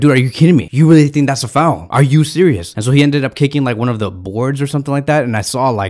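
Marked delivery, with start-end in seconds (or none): 0.0-2.7 incredulous, furious, disbelieving angry outburst. Retelling someone's reaction to a foul at a match, mock-furious. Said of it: "Xavi Hernandez was furious".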